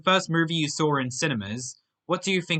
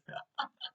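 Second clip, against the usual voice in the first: sinister chuckle; 14 dB quieter than usual. Acted. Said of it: "his sinister Joker-like voice".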